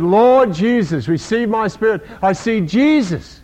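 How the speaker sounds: dying plea. Retold or imitated. Dying Stephen's last words.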